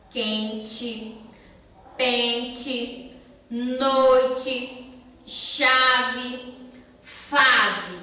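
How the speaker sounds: "quente, pente, noite, chave, fase" each punched on the first syllable; spaced-out list "quente, pente, noite, chave, fase", first syllable strong, endings light; stress on penultimate syllable. Shown as a demonstration. Teacher listing examples for children, penultimate syllable stressed. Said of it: "as sílabas mais fortes são a penúltima".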